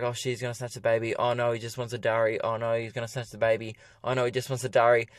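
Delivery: quick, hushed worried babble, flipping back and forth; anxious muttering. Retold or imitated. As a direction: mutter it fast to yourself, nervous. Panicked inner monologue in car park.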